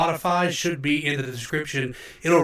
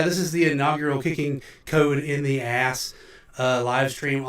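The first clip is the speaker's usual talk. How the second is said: big hall echo. Real, not acted. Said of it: "sorry about the reverb".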